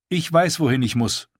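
a lightly voiced proud wildling woman; Val's voice.

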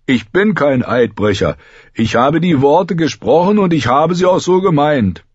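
high, emphatic protest; earnest boyish insistence; indignant young Grenn. A narrator's reading. Grenn defends his oath.

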